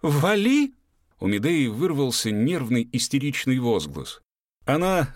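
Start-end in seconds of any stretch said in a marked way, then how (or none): 0.0-0.7 higher, louder, rising yell; repeated, escalating angry shout. A narrator's reading. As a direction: throw the yell even harder. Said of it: "крикнул Эстом".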